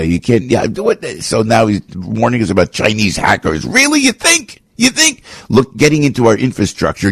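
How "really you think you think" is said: high, incredulous mock questions; sarcastic disbelief. Real, not acted. Host scoffing at the director's hacker warning, sarcastic and high. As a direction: play it as if it's painfully obvious.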